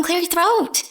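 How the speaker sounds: exasperated shout at a phone; mock scream. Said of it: "I just keep screaming at my phone".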